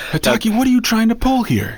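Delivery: Billy Campbell voice. Retold or imitated. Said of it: "Billy Campbell".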